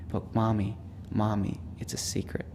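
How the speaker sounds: retold child's hush, fading to a whisper; stage whisper. Young son comforts his grieving mother, hushed mock stage whisper. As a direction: imitate a boy confiding, trailing away very softly. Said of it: "said in a stage whisper".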